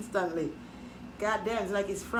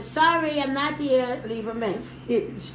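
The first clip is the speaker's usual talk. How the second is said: answering machine message; slower than usual. Retold or imitated. The recorded message that fools the husband, slowing to a drawl. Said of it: "I left the answering machine".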